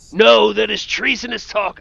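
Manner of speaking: high, loud put-on voice; mock indignant refusal. Guild member refuses the would-be High King, high mock indignation. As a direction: pitch it up and protest loudly.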